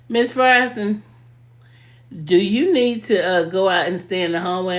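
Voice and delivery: mock a teacher calling out a pupil; imitated teacher. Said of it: "my teacher, she used to always say".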